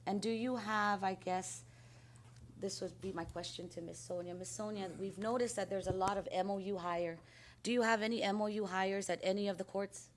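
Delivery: hoarse after losing her voice cheering; hoarse, pushing the voice out. Real, not acted. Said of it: "I sound angry or aggressive".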